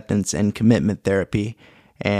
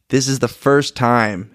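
shaking voice; 2 semitones higher, slower than usual. Real, not acted. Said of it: "my voice is shaking right now".

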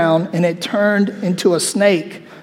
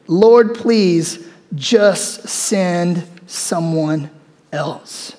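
slow, drawn-out plea fading to nothing; pleading Moses; 2 semitones lower, much slower than usual. Acted. Moses begging God to send someone else, slow plea. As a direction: beg wearily, letting it die away.

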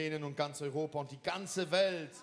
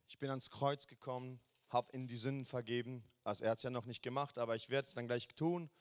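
hasty misquote; 3 semitones lower, faster than usual. Retold or imitated. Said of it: "Und dann denken wir oft".

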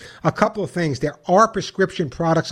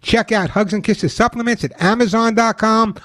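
upbeat radio ad read; chipper 1950s ad; 2 semitones higher than usual. Acted. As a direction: sell it like an old-time pitchman. Host reads his own ad.

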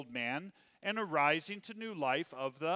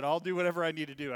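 eager quote; 6 dB louder, faster than usual. Retold or imitated. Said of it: "And he said".

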